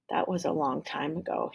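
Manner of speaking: soft, sighing sad memory. Acted. Can man recalls old days to Tim, soft sighing. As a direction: let it fall away on a sigh. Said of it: "he sighed".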